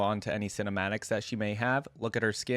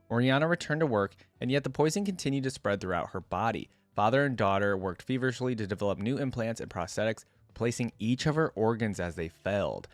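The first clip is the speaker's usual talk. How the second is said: story narration. A narrator's reading. YouTuber reading Oriana's biography to viewers, story narration. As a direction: clear read-aloud biography voice. Reads the champion's story aloud.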